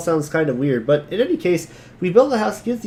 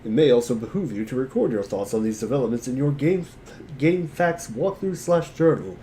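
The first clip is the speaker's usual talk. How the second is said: game text narration. A narrator's reading. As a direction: read the walkthrough prose calmly.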